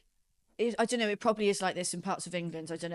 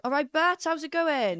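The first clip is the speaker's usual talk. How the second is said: higher, lilting Bridgend Welsh; Bridgend accent; 7 semitones higher than usual. Shown as a demonstration. Local showing how Bridgend differs from Cardiff, higher Bridgend accent. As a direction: greet someone in a Bridgend accent. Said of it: "If you go to Bridgend".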